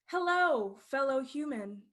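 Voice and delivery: cheerful robotic translator greeting; phone translator voice. Acted. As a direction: announce it like a translation app. Phone translates bear's words.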